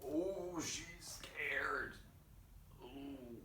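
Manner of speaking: soft unvoiced aside; whispered. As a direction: whisper it to the kids. Reader whispers about character.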